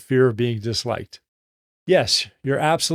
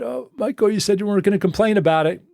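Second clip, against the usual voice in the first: gently reminding; 6 semitones higher than usual. Retold or imitated. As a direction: gently nudge the boss, pitched up. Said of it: "Somebody really gently said".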